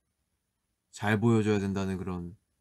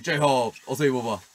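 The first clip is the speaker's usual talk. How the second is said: 진영, lightly imitated; 2 semitones higher, 4 dB louder than usual. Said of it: "이러면서".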